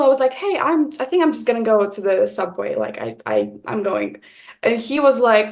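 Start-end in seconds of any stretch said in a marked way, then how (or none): 0.3-4.2 uncomfortable. Retold or imitated. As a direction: awkwardly back out, voice sinking. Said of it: "I wasn't really comfortable".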